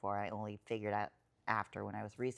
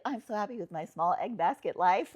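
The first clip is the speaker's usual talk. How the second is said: higher, louder gushing; gushing happiness; 8 semitones higher, 6 dB louder than usual. Retold or imitated. Describing her small egg basket life, higher gushing joy. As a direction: gush about a small simple life. Quoting her joyful self.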